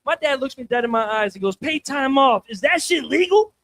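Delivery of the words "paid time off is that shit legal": amazed, slowed-down redneck dad; redneck Mike Tyson. Acted. Dad staring his son dead in the eyes, incredulous redneck. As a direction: ask it in high hillbilly disbelief. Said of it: "sounds like a redneck Mike Tyson when he gets all excited".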